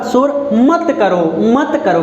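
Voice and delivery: मत pressed, slow, then मत करो repeated; stress on मत. Shown as a demonstration. Teacher repeats the command to show the stress on मत. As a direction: hit मत hard in "शोर मत करो". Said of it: "किस पर जोर दिया जा रहा है".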